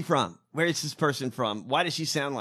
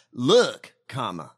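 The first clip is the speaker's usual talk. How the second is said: mock instruction; 4 semitones lower, 5 dB louder, slower than usual. Coaching the press secretary, mock loud Look. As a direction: bark Look then mutter comma.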